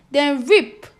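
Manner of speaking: the exclamation mark in "reap"; excited. Shown as a demonstration. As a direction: exclaim "reap" like a sudden rip. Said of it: "it shows some excitement".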